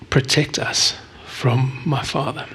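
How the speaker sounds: usual speaking voice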